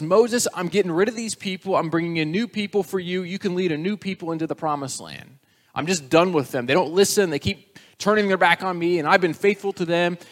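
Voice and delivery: God has had enough and says so; fed-up God. Acted.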